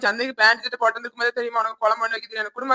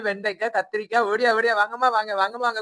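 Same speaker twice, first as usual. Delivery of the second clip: singsong street hawker. Acted. Vendor calling out to shoppers.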